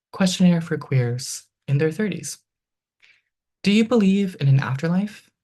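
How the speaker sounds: measured, rhythmic poem delivery; poetry reading. Acted. Poet reading her own poem to the audience, rhythmic reading voice. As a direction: read it like a poet on stage.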